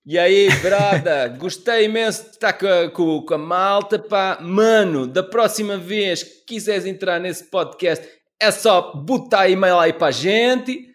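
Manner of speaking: mock African Portuguese slang accent; hammed-up African Portuguese street talk. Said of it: "isto é mais africano".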